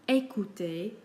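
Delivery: ÉCOUTER opening and ending on "ay"; French é sound. Shown as a demonstration. Teacher giving examples on screen, French é sound. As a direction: say ÉCOUTER as "ay-koo-tay". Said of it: "it is pronounced like A".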